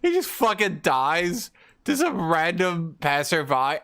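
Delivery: normal talking voice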